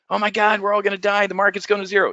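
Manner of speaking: high-pitched hammed-up panic; high, mock-hysterical wail of doom. Mimics panicking investors in a crash.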